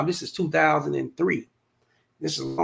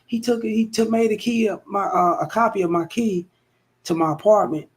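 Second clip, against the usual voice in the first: imitating the girlfriend; 6 semitones higher than usual. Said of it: "She gets on the phone".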